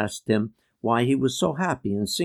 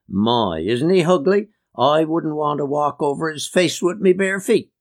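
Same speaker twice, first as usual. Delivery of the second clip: lightly acted uncle, higher and rising in pitch; mock exclamation at an ugly face, pitched up; blunt uncle; 5 semitones higher, 3 dB louder than usual. Uncle remarking on an ugly passer-by, mock exclamation.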